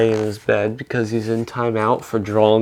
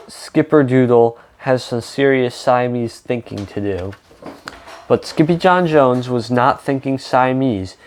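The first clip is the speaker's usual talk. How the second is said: reading a picture book aloud to children, with lightly voiced characters; story narration. A narrator's reading. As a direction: tell the story to a young audience.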